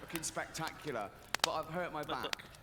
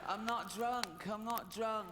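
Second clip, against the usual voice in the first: a hint of slurred drunk talk, a bit higher and slow; Kerry Katona slurring; 3 semitones higher, slower than usual. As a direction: play lightly tipsy and insist you're sober. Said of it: "start talking like Kerry Katona".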